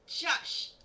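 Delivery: soft unvoiced hush; whispered shush. Real, not acted. Hushing Patrick.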